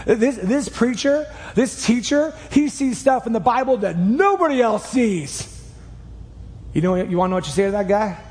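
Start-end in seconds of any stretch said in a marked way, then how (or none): 0.1-5.6 higher-pitched, mildly hammed-up gushing; enthusiastic recommender. Friend pushing a podcast on you, mock-enthusiastic. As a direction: play someone eagerly talking up a favorite preacher.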